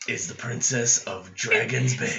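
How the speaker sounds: theatrical narrating voice, consistent each time. Narrating a princess story to a listener, in the dramatic storytelling voice. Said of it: "Why do you have the same voice every single time?".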